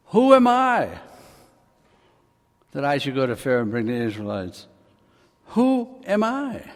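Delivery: Moses pleading he is nobody; doubtful Moses. Acted. Moses voicing his first excuse.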